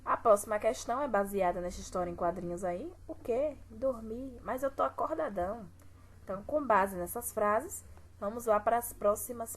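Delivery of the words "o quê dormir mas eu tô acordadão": surprised protest. Shown as a demonstration. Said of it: "Observe a pontuação".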